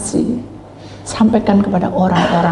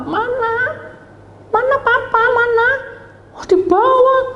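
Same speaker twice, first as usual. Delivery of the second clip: much higher, frantic asking; anxious family voices. Acted. Children searching for their father, high and frantic. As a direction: call out looking for father.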